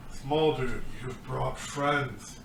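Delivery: slow, lightly voiced friendly orc; a hint of groggy orc; dazed orc. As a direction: draw the words out like a charmed orc. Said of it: "still dazed".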